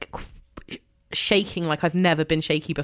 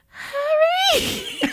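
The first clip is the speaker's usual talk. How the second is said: retold call out. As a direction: shout his name to get his attention. Calling out to Harry on street.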